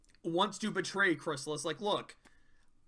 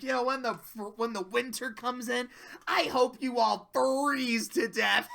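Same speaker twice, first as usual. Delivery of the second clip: lightly voiced villain's ill wish, pitched up; mock gloating, raised pitch; mean taunt; 4 semitones higher than usual. Mean Fluttershy curses the animals.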